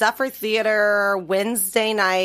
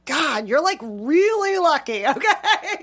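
laughing; 5 semitones higher, slower than usual. Real, not acted. Laughing rant about men.

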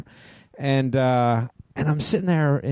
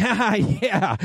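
retold fake laugh; 7 semitones higher, much slower than usual. Faking understanding of a remark.

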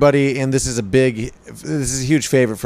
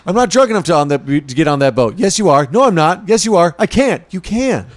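mock drunken argument; 4 semitones higher, 3 dB louder than usual. Reacting out drunk boat argument.

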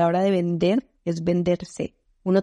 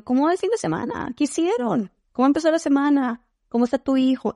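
higher, bright chatty questions; friendly meeting opener; 6 semitones higher than usual. Retold or imitated. Opening remote meetings with clients, higher friendly small talk. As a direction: warmly ask about their weekend. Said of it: "y les digo".

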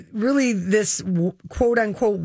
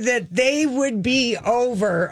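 high-pitched, vindicated I-told-you-so; triumphant; 7 semitones higher than usual. Real, not acted. Host reminding co-host she predicted the breakup, triumphant. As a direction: crow over being proved right.

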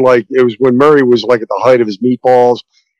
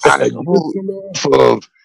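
Al Pacino impression; 3 semitones higher than usual. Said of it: "Pacino impressions".

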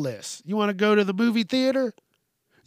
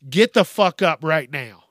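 third time, now louder and fed up; fed-up louder order after asking three times; louder final demand; 5 dB louder than usual. Shown as a demonstration. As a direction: bark the last warning, louder. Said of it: "after I had to say it, like, three times".

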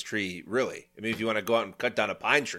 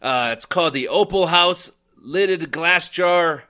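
put-on hammy, wavering cowboy accent; 2 semitones higher, 4 dB louder than usual. Host insisting he's still in it, cowboy accent. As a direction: keep up a silly outlaw accent. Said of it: "I wanna sound like this".

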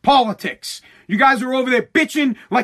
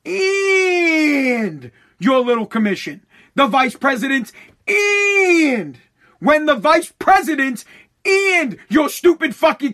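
drawn-out, slower yell of disbelief; exasperated yell; 4 semitones higher, slower than usual. Real, not acted. Ranting at Nancy about her commission, a drawn-out exasperated yell. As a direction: stretch the words out in furious disbelief.

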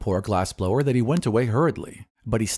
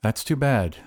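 mildly indifferent, close to usual pitch. Acted. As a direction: say it with little concern. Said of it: "declared the glassblower indifferently".

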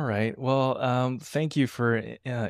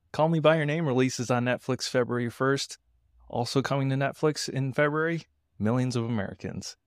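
monologue joke delivery; 3 semitones higher than usual. Shown as a demonstration. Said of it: "reading some headlines in the style of a monologue joke".

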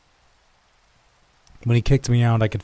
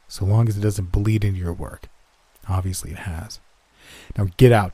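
contemptuous; 4 dB louder than usual. Acted. Boss mocking and dismissing him.

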